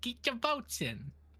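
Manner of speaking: put-on old-school seventies gangster talk. Urging viewers to get their votes in, as Ashton Sachs, seventies mobster voice. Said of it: "seventies mobster".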